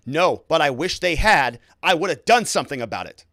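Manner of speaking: voice rising. Retold or imitated. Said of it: "with his voice rising".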